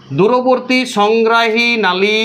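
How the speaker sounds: every word of দূরবর্তী সংগ্রাহী নালী drawn out very slowly; a teacher's slow, clear dictation. Shown as a demonstration. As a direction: dictate the term slowly so it can be written down. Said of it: "ইংরাজিতে এটাকে লিখবে".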